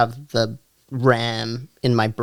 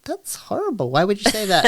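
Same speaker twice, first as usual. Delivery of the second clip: shocked outsiders; 9 semitones higher, faster than usual. Retold or imitated. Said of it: "people hear that and they're like".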